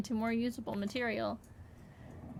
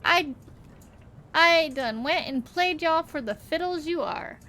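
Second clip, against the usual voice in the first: gloating villain. Acted. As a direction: lord it over the heroes you tricked. Gloating villain reveal speech.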